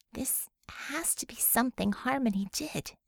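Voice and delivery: soft, whispered musing; thinking aloud. Acted. Bella thinking aloud at Gardner's bedside, whispered. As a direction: puzzle it out under her breath. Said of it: "thinking out loud".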